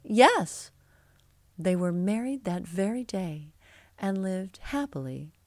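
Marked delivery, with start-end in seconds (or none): 0.0-0.7 high, loud, happy yes; delighted. A narrator's reading. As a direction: accept eagerly with a burst of delight. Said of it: "was delighted to say".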